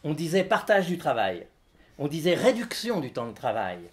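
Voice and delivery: measured list-poem recitation with pauses; declaimed text for an audience; live literary reading. Acted. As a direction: read it as a litany, item by item. Reads own text aloud.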